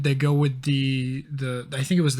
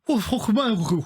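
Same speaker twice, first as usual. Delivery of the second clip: British bloke impression; 5 semitones higher than usual. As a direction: play a disgruntled Brit, up high and aggrieved. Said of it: "Average British person".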